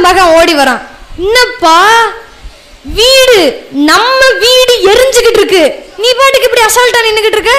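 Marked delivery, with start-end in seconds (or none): 1.3-7.6 alarmed son. Retold or imitated. Son runs in, house burning.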